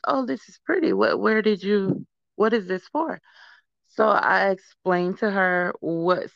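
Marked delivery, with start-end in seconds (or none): 0.1-3.2 high, sweet voice imitating the lady; quoting the lady. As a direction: imitate her curious, admiring question. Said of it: "She was like".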